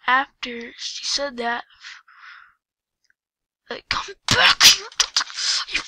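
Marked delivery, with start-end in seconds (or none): 3.7-5.8 loud call. Real, not acted. Calling out to other player.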